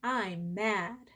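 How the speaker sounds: said gently with the in-breath; breathing practice phrase. Shown as a demonstration. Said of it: "Try that".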